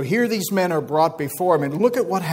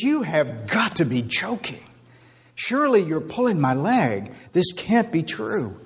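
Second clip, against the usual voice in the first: a touch of acted disbelief, slightly raised; incredulous; 3 semitones higher than usual. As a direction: play a king who can hardly believe it. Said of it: "with incredulity in his voice".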